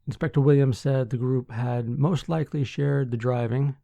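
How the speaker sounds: measured newsreader delivery with firm sentence openings; news article read. Acted. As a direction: read the article out clearly to listeners.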